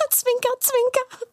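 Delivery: high, giggly conspiratorial tease; high, playful wink-wink; coy wink. Acted. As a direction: say it like a sly wink. Villain hinting at a secret plan.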